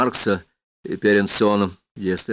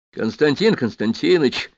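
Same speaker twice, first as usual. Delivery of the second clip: drawn-out, slightly raised call to get someone's attention; 4 semitones higher than usual. Acted. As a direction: call to him across the room, slowly. Герой окликает Чаянова. (протяжный оклик)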